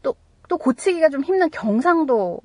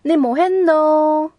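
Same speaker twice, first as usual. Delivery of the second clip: loud, high Gyeongsang dialect sample; mock Gyeongsang dialect; 4 semitones higher, 4 dB louder, slower than usual. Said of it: "뭐 이런 거".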